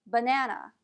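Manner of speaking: "banana" with first and last A as uh; schwa in banana. Shown as a demonstration. Teacher giving an example word, schwa at both ends. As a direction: say "banana" as buh-NAN-uh. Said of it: "first A and the last A are pronounced as a schwa".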